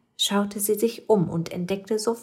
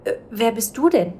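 higher, louder startled question; a small witch jumping at a stranger; startled little witch; 6 semitones higher, 6 dB louder than usual. Acted. Little witch asking the ghost who he is, higher and startled. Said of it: "fragte sie".

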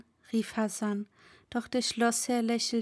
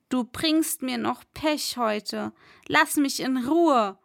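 sharp call; 3 dB louder than usual. Acted. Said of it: "rief er".

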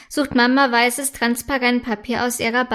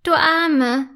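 sympathetic; 3 semitones higher, 3 dB louder, much slower than usual. A narrator's reading. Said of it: "sagt Friederike mitfühlend".

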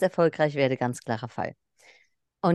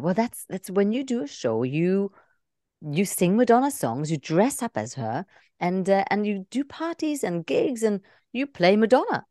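put-on English accent; 2 semitones higher than usual. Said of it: "englischen Akzent".

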